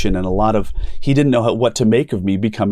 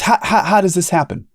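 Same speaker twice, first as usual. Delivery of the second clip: amazed question; 6 semitones higher than usual. Retold or imitated. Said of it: "and he goes".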